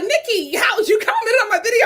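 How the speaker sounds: high, mock shocked viewer asking. A viewer finding Nikki's comment, mock shock. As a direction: play the surprised subscriber. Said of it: "y'all be so shocked, like".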